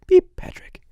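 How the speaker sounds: mock beep, then a hushed alert; headset call. Worker secretly warning Patrick over the headset, hushed. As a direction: imitate a headset page, dropping to a near whisper. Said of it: "I'd go in the headset".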